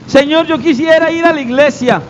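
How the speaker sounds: lightly acted wistful believer; mock wishful prayer. Believer only wishing to God, mock wishful prayer.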